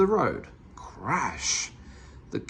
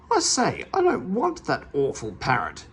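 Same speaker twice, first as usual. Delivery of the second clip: yell; 5 semitones higher than usual. A narrator's reading. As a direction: bellow your protest. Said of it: "yelled Mister Meddle".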